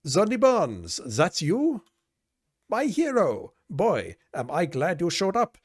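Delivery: high-pitched, gushing damsel voice; excited shouting woman. Acted. Working girl greeting her hero, high excited call. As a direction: call out in a hammed-up high voice, drawing out the end. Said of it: "She hops from the stool and shouts".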